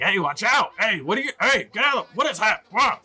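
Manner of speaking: high, offended shouts from townsfolk; offended crowd. Acted. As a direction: cry out like startled, affronted passers-by. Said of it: "most of them sound offended".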